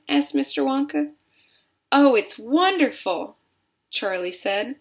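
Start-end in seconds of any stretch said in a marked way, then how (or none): 1.9-3.4 higher, louder burst of delight. A narrator's reading. Charlie tells Wonka about the chocolate, delighted. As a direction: savor it with real wonder.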